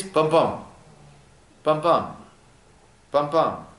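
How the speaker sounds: spoken double-thump of a heartbeat; heartbeat imitation. Shown as a demonstration. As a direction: say it as steady paired beats. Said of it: "Heartbeat is".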